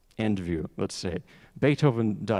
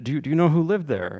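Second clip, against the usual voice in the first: put-on Cuban accent; 6 semitones higher, 5 dB louder, faster than usual. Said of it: "I can't do his voice".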